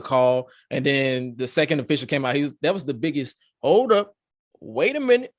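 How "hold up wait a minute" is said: mock referee callout. Second official stopping the count.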